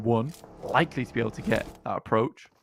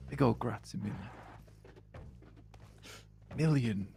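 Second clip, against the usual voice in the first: mock tourist Italian; 4 semitones lower, 8 dB quieter, faster than usual. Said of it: "like my dad does on holiday".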